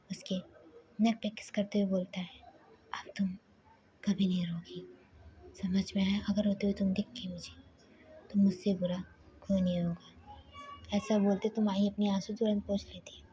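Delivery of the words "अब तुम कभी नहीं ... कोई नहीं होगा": threatening whisper. Acted. Husband's menacing threat at her neck.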